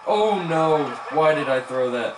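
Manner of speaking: loud, pained oh no; real self-reproach; dismayed outburst. Real, not acted. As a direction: groan at your own bad throw. Player throws a bad pass.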